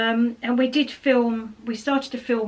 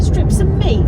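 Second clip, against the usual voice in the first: surprised; 9 semitones higher, 8 dB louder, slower than usual. Real, not acted. Repeating partner's blunt phrase.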